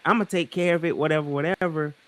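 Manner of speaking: high, breezy brush-off; mock teacher shrugging it off; dismissive teacher. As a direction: wave it away like it's nothing.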